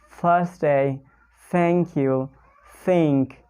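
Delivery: tongue between the teeth on each th; th sound demo. Shown as a demonstration. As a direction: blow air for the th in "Thursday", "thank you", "think". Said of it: "into your mouth like this".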